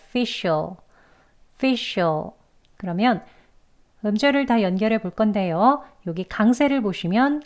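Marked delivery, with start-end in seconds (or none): 0.1-2.3 facial said as fi-shul with dark L; linked syllables. Shown as a demonstration. Teacher models the joined ending, facial as a neat fi-shul. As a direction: join "facial" into fi-shul, evenly. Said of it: "얘가 되는 거예요".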